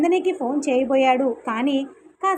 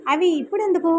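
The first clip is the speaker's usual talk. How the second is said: surprised question; 4 semitones higher than usual. Acted. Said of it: "Nandini ఆశ్చర్యంగా అడిగింది".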